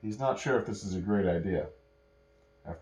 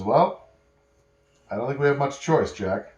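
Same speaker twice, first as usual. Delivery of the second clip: resigned Cersei; 5 dB louder than usual. Acted. Cersei gives in, reluctant.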